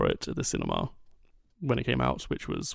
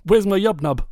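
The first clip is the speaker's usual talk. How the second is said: mock outrage; 7 semitones higher, 6 dB louder than usual. Mocking the missing Ewok song.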